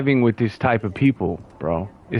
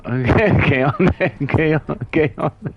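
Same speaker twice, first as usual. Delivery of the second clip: Spanish demo. Shown as a demonstration. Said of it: "Like, I can do it".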